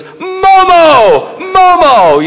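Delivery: put-on high excited toddler shout; toddler yelling. Grandpa imitating grandson shouting for the dog. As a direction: call the dog like a tiny kid. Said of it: "then he goes".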